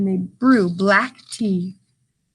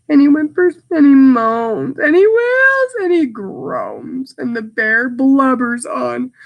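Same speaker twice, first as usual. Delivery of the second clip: a touch of sobbing in the reading; mock crying; 2 semitones higher, 4 dB louder than usual. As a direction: read it like the bear is blubbering. Reads bear crying with mock sob.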